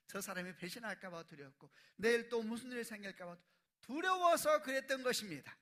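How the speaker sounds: from normal to loud high climax; preaching building. Real, not acted. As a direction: build to a fervent shout. Building sermon.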